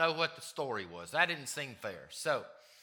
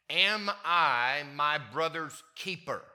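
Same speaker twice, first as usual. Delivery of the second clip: smart aleck; 5 dB louder, slower than usual. Retold or imitated. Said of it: "Cain is a smart aleck".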